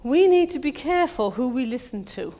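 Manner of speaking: firm warning. Shown as a demonstration. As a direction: drive the warning home. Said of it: "repeats it softer for the congregation".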